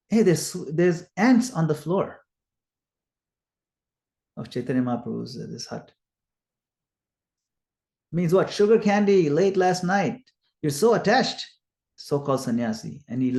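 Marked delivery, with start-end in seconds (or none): 0.1-11.4 acted-out accusing, higher and louder on the jabs; fault-finding accusation. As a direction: call out someone's faults, voice raised. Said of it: "searched the Lord for a flaw".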